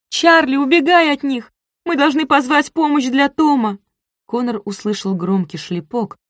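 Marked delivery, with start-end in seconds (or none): 0.1-3.8 high, loud panicked cry; desperate shout. A narrator's reading. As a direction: scream at him to run. Girl shouts to brother. (отчаянный крик девочки брату)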